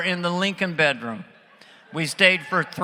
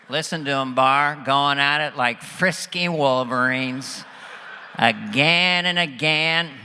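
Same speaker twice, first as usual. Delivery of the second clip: slow, drawn-out presidential impression; George Bush; 2 semitones lower, 3 dB louder than usual. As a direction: offer hospitality as the folksy president. President voiced overhearing the couple.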